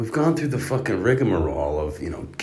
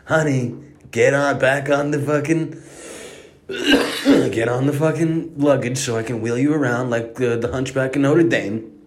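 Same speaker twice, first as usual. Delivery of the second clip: put-on urgent call to child; 6 semitones higher than usual. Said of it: "I'm like".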